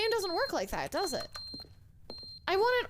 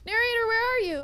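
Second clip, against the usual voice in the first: louder call into the empty room; 4 semitones higher, 6 dB louder than usual. Real, not acted. Player calling across the room for the missing narrator. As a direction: call out to find him.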